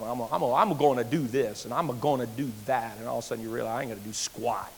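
lightly voiced braggart trailing off; mock boaster fading. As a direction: start proud and sink to nothing. Mocking puffed-up boaster fading.

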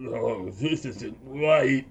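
hushed, dragged-out villain's mutter. Acted. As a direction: mutter it slowly under your breath, in character. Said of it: "you hear him mutter something".

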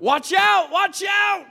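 very high, loud warning shout; panicked yelling. Retold or imitated. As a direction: imitate a dad yelling in alarm. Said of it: "he starts yelling out".

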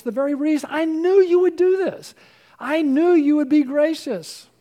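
Jonah's complaint. Acted. Preacher voicing Jonah, hurling his complaint at God in exasperation. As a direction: throw it at God like a bitter grudge.

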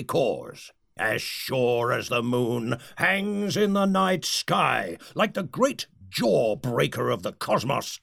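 grand villainous oratory; rally the faithful, solemn and grand; roaring rallying speech. Acted. Leader's grand speech to legion.

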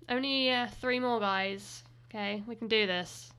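winded, slowing down near the end of the list; breathless, pushing through; out of breath. Real, not acted. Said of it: "I'm running out of breath".

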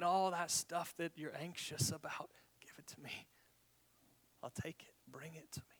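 tender invitation. Retold or imitated. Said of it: "invitation from this tender, caring Jesus".

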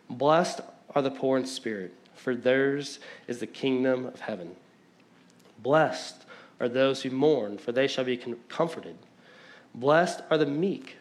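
reading the Beatitudes slowly, each line weighed; slow scripture reading. Shown as a demonstration. Pastor reading Jesus' words slowly to the congregation, deliberate. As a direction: let every blessing land before the next. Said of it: "I'm gonna read it slow 'cause I'm a fast talker".

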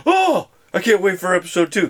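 high, loud eager squeal; excited gasp. Retold or imitated. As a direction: gush like a thrilled fan.

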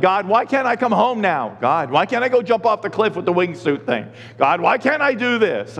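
mock whiny plea to God; whining. Pastor complains to God about not going home, mock whining. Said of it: "I'm a whiner. It's like".

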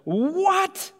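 high, sharp disbelieving What; crowd's stunned high What; shocked "What?". Retold or imitated. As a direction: squeal it like an outraged crowd. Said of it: "And they go".

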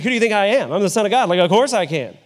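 mildly indignant mock retort. Shown as a demonstration. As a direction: act a touch affronted, as if doubted. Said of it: "Is he indignant?".

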